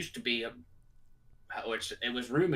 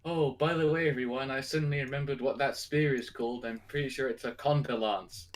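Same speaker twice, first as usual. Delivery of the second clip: lightly acted sudden recollection; 3 semitones higher than usual. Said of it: "the speaker suddenly says".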